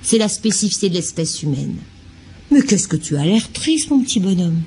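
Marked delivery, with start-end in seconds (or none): 2.5-4.6 put-on gentle caring question to the child; tender mentalising. Shown as a demonstration. Parent gently asking the sad baby, lightly tender. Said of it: "Ça, c'est de la mentalisation".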